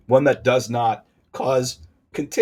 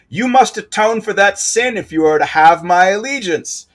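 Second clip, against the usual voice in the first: much higher, louder hammed-up spirit voice; ancient being voice; 9 semitones higher, 8 dB louder than usual. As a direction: boom out the demand as the ancient beast. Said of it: "Channeling the voice from before".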